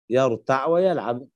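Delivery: يرتع with a vowelless, closed ayn at the end; sukun on ayn. Shown as a demonstration. Teacher showing the reading with sukun, يرتع ending on a bare ayn. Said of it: "فإنه يقرأ بسكون العين".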